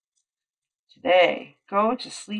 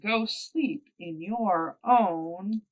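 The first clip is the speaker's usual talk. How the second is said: grumpy pig; 4 dB louder, slower than usual. Acted. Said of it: "squealed Pig".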